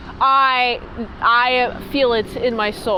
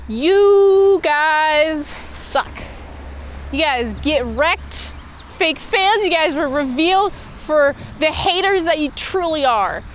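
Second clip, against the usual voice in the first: mock taunt; 4 semitones higher, slower than usual. Taunting the doubting crowd.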